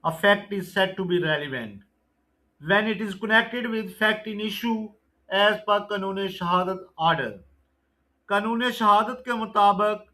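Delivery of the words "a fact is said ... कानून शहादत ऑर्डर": slow, deliberate exam-question read; measured MCQ recitation; slow quiz reading. Acted. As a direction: dictate each question and option slowly. Reads definition slowly.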